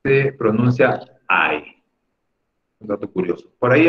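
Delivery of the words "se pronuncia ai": ai slow and drawn out, gliding a to i; ai said slowly like English I; English I sound. Shown as a demonstration. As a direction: stretch ai like English I. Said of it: "La I".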